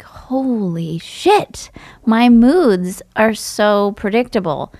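slow, drawn-out amazement; mild retold astonishment, slow; stunned realization. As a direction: let the discovery sink in slowly. Realizing journal pattern.

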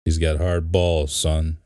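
weak attempt at a Boston accent; bad Boston accent. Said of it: "I have the worst Boston accent ever".

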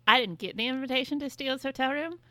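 loud, high-pitched indignant grievance; miffed complaint. Real, not acted. Friend complaining about no invitation to the hotel room, miffed. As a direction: protest loudly at being left out. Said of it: "Kinda pissed about that".

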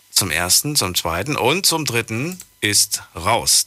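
slow auctioneer call. Pretend. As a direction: count it down like an auction. Caller line closed like auction.

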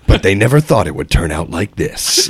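trailer voiceover. Acted. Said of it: "do that voice for one of the trailers".

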